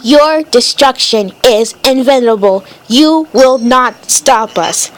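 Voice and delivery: low, slow machine monotone; robot voice. Acted. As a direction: deliver it like a cold robot. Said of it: "You are talking like a robot".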